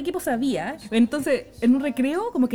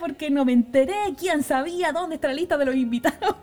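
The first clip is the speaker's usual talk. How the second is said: retold rage; 4 semitones higher than usual. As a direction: act out venting furiously to your friends. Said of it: "Roja de rabia". (rabia actuada, aguda e indignada)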